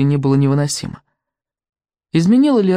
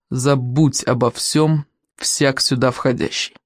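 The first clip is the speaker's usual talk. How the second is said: ominous slow reading; 4 semitones lower, slower than usual. A narrator's reading. Ominous inscription read out.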